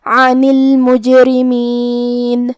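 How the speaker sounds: slow chant of عن المجرمین with a light, thin R; thin raa. Shown as a demonstration. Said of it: "را کو پتلی آواز میں پڑھنا ہے". (عن المجرمین میں را پتلی آواز میں، ٹھہر کر)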